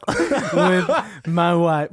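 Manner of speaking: very slow mock Clinton, laughing; Bill Clinton impression. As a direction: drag it out as Clinton. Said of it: "Bill Borat over here".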